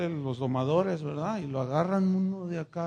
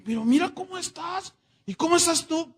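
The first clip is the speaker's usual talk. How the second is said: much higher, louder amazed exclaiming; excited Pancho; 11 semitones higher, 5 dB louder than usual. Acted. Pancho marvels at the well-fed Pepe, high and loud. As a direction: marvel at how well he looks.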